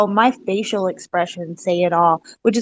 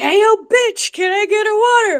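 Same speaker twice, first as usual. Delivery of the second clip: acted voice, pitched much higher; 12 semitones higher than usual. Reminded of a skit, the speaker acts out the restaurant order: Chappelle rapper-skit impression. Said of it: "that Chappelle with that rapper skit".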